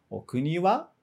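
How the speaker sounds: short question, raise the pitch on "wa"; rising on "wa". Shown as a demonstration. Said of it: "um tom mais alto".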